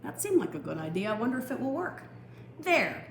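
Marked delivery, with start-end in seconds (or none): 2.6-3.1 high, firm "There"; firm declaration. Acted. Gardener declaring his fence finished, high and firm. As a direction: declare it firmly. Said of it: "he declared".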